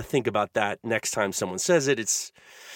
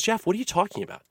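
exasperated dad; 8 semitones higher, 4 dB quieter, faster than usual. Retold or imitated. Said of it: "my dad turns to me and goes".

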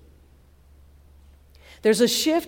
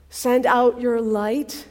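slow prayer; 3 dB louder, slower than usual. Real, not acted. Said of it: "slow prayer".

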